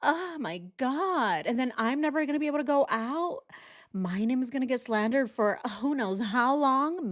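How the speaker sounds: high, whimpering mock tears; hammed-up weepy lament with fake sobs; fake crying. Commentator parodies her crying about herself, badly faked tears. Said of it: "It made it worse that she went".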